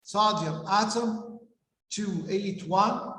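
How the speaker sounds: "Sodium atom" drawn out, then "two eight one" said one number at a time; slow, spelled out. Shown as a demonstration. Teacher spelling out sodium's shells for students, slow. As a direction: lay out each number slowly for the class. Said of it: "teacher spells out the configuration".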